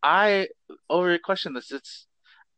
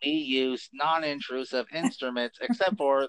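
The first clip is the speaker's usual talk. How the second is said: Coneheads voice. Acted. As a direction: speak like a formal alien ambassador. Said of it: "No more alien voice".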